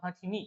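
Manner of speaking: हथीनी with light था and weight on नी; stress on नी. Shown as a demonstration. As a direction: say हथीनी putting the weight on नी, not था. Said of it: "जब इसको मैं pronunciation कर रहा हूँ".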